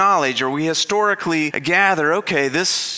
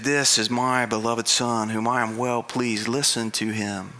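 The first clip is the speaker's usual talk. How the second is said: voice of God; 4 semitones lower, 4 dB quieter than usual. Retold or imitated. God's voice from the cloud, hushed and solemn. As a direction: speak it softly with reverence. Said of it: "And he said".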